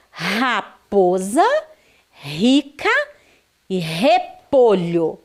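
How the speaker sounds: "raposa, rica e repolho" com R inicial aspirado; R forte. Shown as a demonstration. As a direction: leia "raposa, rica e repolho" devagar, realçando o R. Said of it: "R forte". (erre forte no começo de cada palavra)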